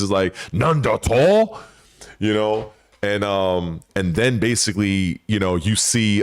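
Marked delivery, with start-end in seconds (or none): 0.5-1.6 higher, slow startled Japanese exclamation; Heihachi in Japanese. Retold or imitated. Heihachi reacting in Japanese, higher startled exclamation. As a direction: bark it out in Japanese like the old master. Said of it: "he's speaking in Japanese".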